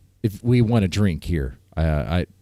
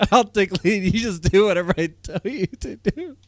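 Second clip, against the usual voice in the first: higher, teasing parody of a boss; mocking bossy voice; 6 semitones higher than usual. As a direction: echo his orders in a silly voice. Mocks friend's bossy line.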